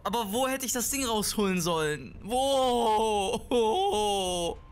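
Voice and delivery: real panic screams at the game; panicked screaming. Real, not acted. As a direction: shriek through the boss fight. Boss fight panic, screaming.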